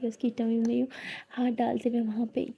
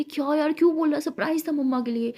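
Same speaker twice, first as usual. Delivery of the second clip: annoyed; 4 semitones higher, 5 dB louder than usual. Acted. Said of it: "Lakshmi बोलती".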